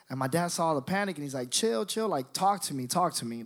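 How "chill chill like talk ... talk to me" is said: falling, unraised fatherly voice; calm reassurance. Retold or imitated. Dad soothing his panicked son, mild calm voice. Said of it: "my dad was never a person who yelled".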